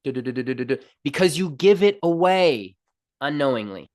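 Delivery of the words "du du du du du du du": rapid stuttered drum-roll syllables; mouthed drum roll; imitated drum roll. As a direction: do a spoken drum roll for suspense. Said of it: "Drum roll".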